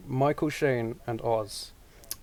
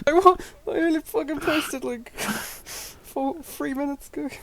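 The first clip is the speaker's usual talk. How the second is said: indignant disbelief; 13 semitones higher than usual. Real, not acted. Outraged at being banned.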